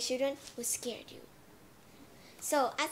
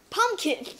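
pumpkin; 7 semitones higher, 9 dB louder than usual. Acted. Naming the topic.

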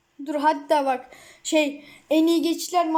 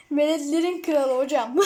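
laughing. Real, not acted. Laughing at the kid player.

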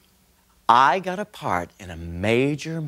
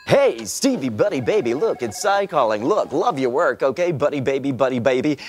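smarmy producer; faster than usual. Retold or imitated. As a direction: brush him off with fake warmth. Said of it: "dreaded call from the producer".

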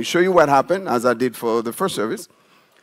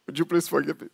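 gentle plea; 3 semitones higher, 8 dB quieter, faster than usual. Shown as a demonstration. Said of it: "So now I'm calm".

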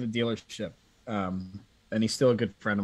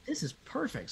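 gleeful scheming; 12 semitones higher, 8 dB quieter than usual. Retold or imitated. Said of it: "So I was like".

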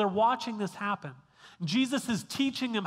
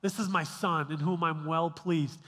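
lower, proud and pleased voice; a father beaming over his son; 5 semitones lower than usual. Shown as a demonstration. Heavenly Father proudly presenting his son, lower and proud.

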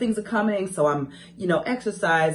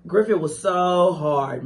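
ordinary delivery

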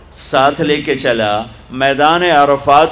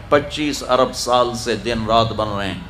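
softer echo; 4 semitones lower, 5 dB quieter than usual. Shown as a demonstration. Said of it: "repeats the line softer".

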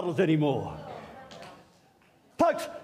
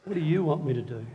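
quicker, eager repeat; eager Paul; 5 semitones lower, 3 dB quieter, faster than usual. Retold or imitated. Paul to Jesus, quick and eager. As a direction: ask again, ready to go. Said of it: "Paul ... said".

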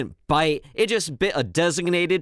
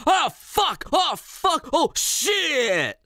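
high, panicky mock scream; hammed-up horrified yelps, no real volume; dad screaming; 10 semitones higher, much slower than usual. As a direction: yelp each curse up high. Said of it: "just screamed".

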